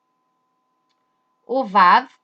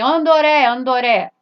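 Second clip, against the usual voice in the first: calling Andoré, louder and higher; 3 semitones higher, 6 dB louder than usual. Pretend. Someone in Brazil calls out for Andoré. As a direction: call across the room for Andoré. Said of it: "alguém".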